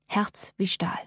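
"Herz wie Stahl" whispered, soft and unvoiced; whispered echo. A narrator's reading. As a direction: breathe "Herz wie Stahl" as a hushed aside. Repeated phrase as an echo.

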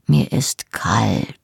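slow, low whisper; hushed intimacy. A narrator's reading. Man calls her close in dark bed, whispering. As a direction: whisper it slowly, drawn out and close.

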